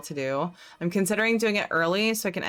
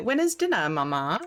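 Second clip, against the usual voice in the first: silly put-on Australian accent. Retelling a silly line taught to someone: put-on Australian accent. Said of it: "using an accent now".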